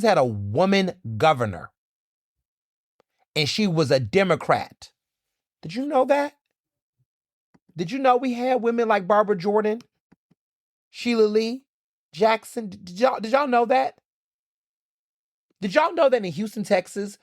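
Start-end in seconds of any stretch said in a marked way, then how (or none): 5.6-17.2 high, disbelieving rhetorical questions; incredulous questioning. Real, not acted. Quizzing viewers who doubt Texas history, incredulous. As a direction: ask it like they should already know.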